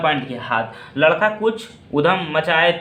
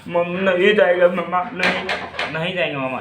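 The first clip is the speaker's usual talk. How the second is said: lightly voiced little kid, whiny no; a hint of a stubborn child clinging; small child refusing. Grandson refusing to go back to his mother, mild childish whine. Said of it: "छोटा बच्चा कैसे कहता".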